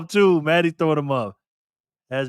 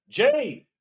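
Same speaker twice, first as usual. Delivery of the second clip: high-pitched cry of the winner's name; excited call-out; 13 semitones higher than usual. Real, not acted. Announces the spin's winner.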